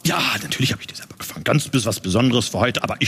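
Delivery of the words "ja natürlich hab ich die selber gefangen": whisper. Acted. Host whispers quickly.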